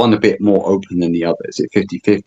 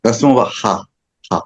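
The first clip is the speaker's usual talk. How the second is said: open-throat ha exhale; breathy ha; 4 semitones higher than usual. Shown as a demonstration. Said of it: "Like ha from the throat".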